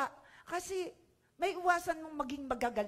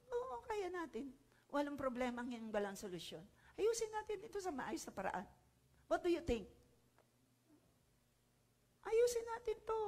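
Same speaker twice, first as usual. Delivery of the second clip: calm peacemaker; 4 semitones higher, 6 dB quieter than usual. Retold or imitated.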